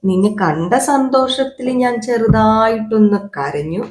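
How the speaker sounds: slow, slightly softened confession; sheepish admission. Acted. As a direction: own up reluctantly, drawing the words out. Acted reluctant confession of crying.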